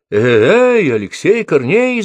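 high shout with all her strength; full-voice call across the slope; calling out loud. A narrator's reading. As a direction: yell his name into the forest. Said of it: "закричала Ульяна во всю силу".

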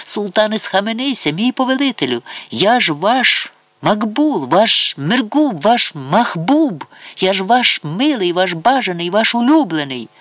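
impassioned high-pitched appeal; desperate pleading. A narrator's reading. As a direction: beg for your life, stretching each title. Condemned favourite begs the sultan.

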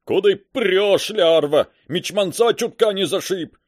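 rough sailor barking; gruff loud sailor growl; gruff bass. A narrator's reading. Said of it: "раздался густой бас".

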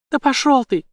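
high, loud furious yell; furious shout. A narrator's reading. Jane cursing the villain, high furious yell. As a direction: scream it at him.

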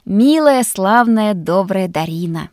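gushing thanks to the cook; gushing praise. Acted. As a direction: pour on the adoration. Connor gushes over the food.

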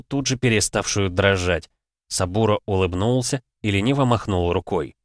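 usual speaking voice

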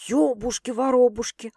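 hidden admiration. A narrator's reading. Sister marvelling at the confession, admiring. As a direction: marvel under your breath. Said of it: "с затаённым восхищением протянула Светка".

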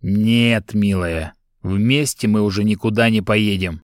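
«Нет, милая» low, every word hammered out separately; each word clipped. Acted. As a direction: chop out each word of «никуда не поедем». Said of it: "чеканя каждое слово".

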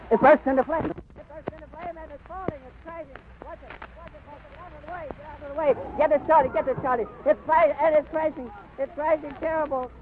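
yelling in shock at the disaster unfolding; horrified shouting. Real, not acted. Airship bursts into flame live.

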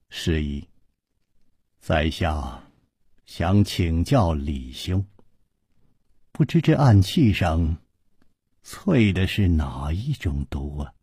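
low, slow and grave; low solemn voice. Acted. 楚留香 gravely asking李兄 which poison it is. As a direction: ask with heavy restraint. 楚留香沉声说.

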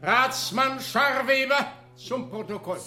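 formal courtroom call; official calling out. Acted. Court official summoning a councilman for the record, calling out. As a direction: announce it across the hall.

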